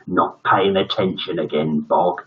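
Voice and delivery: low, stern demanding teacher. Acted. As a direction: lay down the law to the boy. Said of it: "demanded Dread".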